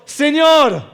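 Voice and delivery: high, loud cry; desperate shout. Acted. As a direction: scream for help. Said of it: "Están gritando en desesperación". (grito desesperado)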